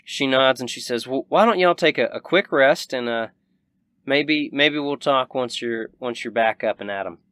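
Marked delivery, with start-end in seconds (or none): 1.1-7.2 lightly voiced country hostess; a hint of rancher lady; Southern rancher woman, hospitable.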